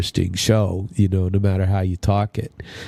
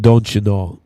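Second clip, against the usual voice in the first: put-on Minnesota accent; 4 dB louder than usual. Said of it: "you'd talk about".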